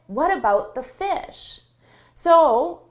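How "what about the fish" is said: concerned objection. Shown as a demonstration. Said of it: "It's a little bit lower. It's more concern in it".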